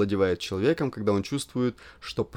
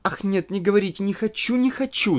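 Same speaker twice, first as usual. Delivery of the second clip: high, loud petulant outburst rising each time; shrill wife refusing, higher and louder; angry cry; 10 semitones higher, 5 dB louder than usual. A narrator's reading. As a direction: stamp your foot in high angry protest. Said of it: "закричала она, вдруг совсем рассердившись".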